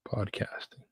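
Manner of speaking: breathy stage whisper. Acted. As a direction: whisper it like a secret. Repeats word as stage whisper.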